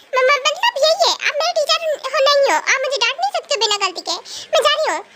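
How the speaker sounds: put-on a caught-out girl wriggling away; flustered young girl. Flustered girl stammering excuses to her teacher, huffy.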